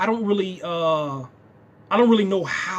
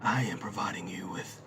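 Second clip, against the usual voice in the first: Brainiac; 10 semitones lower, 11 dB quieter than usual. Acted. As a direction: intone it deep and soft, calling for worship. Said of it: "like, calling for worship".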